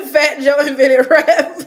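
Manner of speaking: loud, slow words breaking into laughter; can't hold it in; laughing. Real, not acted. Reacting to a viewer's joke about rap, bursting out laughing. Reading absurd comment, laughing.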